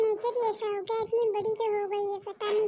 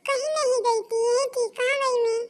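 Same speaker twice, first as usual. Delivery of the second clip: louder, snapping back defensively; irritated retort; 4 dB louder than usual. Acted. Daughter snaps at her mother for questioning her, irritated. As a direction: brush off the question with annoyance.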